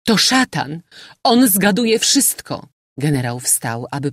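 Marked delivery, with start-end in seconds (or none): 0.1-2.7 high, raised cry of alarm. A narrator's reading. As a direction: exclaim it as a frightened warning. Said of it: "krzyknęła".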